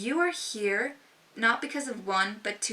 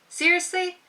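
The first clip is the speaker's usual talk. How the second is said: high, louder uncertain rise; doubtful question; 8 semitones higher, 5 dB louder than usual. Shown as a demonstration. Seeking a friend's approval with a high doubtful rise. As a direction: ask it like you doubt yourself. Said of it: "does that sound assertive to you?".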